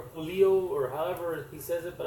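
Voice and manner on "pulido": Pulido in a Spanish accent, tapped r-less vowels pure. Shown as a demonstration. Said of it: "I'm using my Spanish accent to try to say the Pulido".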